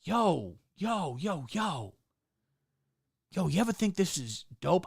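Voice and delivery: half-hearted streamer bro; Sneako impression. Mocking Sneako's stream talk, half-hearted bro voice. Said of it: "is like".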